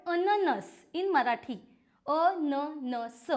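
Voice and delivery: अननस spoken slowly, each syllable a-na-na-s clear; Marathi word said syllable by syllable. Shown as a demonstration. Teacher showing students how अननस is said, slow and clear. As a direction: spell out अननस by its sounds for the kids. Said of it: "I am saying four words".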